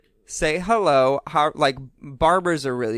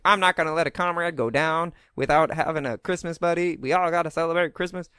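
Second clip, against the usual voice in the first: bad Ernest voice; 4 semitones higher than usual. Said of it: "I'm really bad at an Ernest voice".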